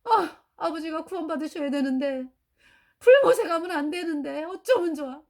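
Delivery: tearful lament, voice cracking; half-sobbing worry; weeping plea, rising in the middle; retold crying. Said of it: "서럽게 울었어요".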